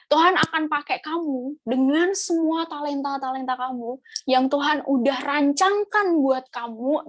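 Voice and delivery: slow, deliberate prophetic word; drawn-out words of a preacher; retold prophecy. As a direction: deliver it slowly as a message from God. Retelling a pastor's prophetic word.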